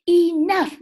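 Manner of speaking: loud, firm enough. A narrator's reading. Teacher cat ends the chaos with a loud firm enough. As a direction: put your foot down.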